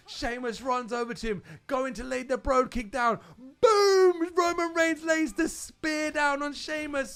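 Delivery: rising, building excitement to a yell; excited play-by-play. Retold or imitated. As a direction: call it like a hyped commentator. Excitedly retelling the match finish.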